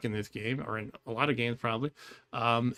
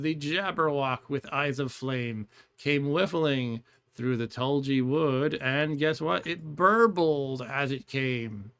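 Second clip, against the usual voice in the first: slow, deliberate poem reading; poem recitation; slower than usual. Acted.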